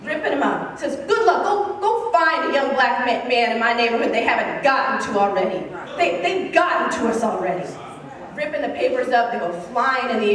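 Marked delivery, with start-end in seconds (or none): 1.1-7.7 enraged. Retold or imitated. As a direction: act out a bitter, forceful challenge. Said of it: "finally he becomes enraged".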